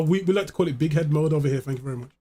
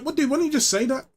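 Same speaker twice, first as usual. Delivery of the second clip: exasperated; 4 semitones higher than usual. Retold or imitated. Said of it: "I'm like".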